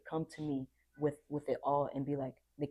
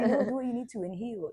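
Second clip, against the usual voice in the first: laughing; 8 semitones higher, 7 dB louder than usual. Real, not acted. Still laughing after quote.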